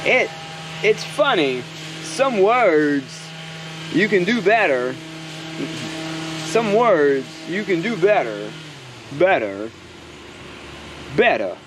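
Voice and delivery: halting, drawn-out celebrity impression; Christopher Walken. Vlogger musing on words done better, Christopher Walken impression. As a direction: lightly imitate an actor's odd pauses and swooping stresses. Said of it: "I can do a Christopher Walken".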